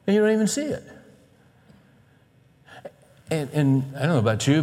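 ordinary talk, nothing marked

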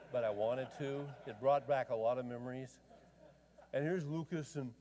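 usual speaking voice

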